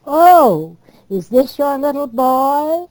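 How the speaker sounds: high, loud cooing society lady; fawning lady admiring a pram; gushing club woman. Retold or imitated. Club woman gushing over baby.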